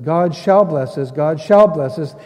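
"shall" punched in both repeats; stress on SHALL. Retold or imitated. Preacher showing the promise is said twice, emphatic "shall". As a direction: repeat it firmly, leaning on "shall" each time. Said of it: "He says this twice now".

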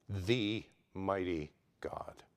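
very slow, low, near-whispered awe; hushed reverence. Real, not acted. Preacher naming God to the congregation in hushed reverence. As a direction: drop low and space out each word.

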